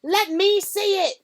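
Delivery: high loud demand. A narrator's reading. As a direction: insist like a spoiled boy. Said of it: "demanded Dudley".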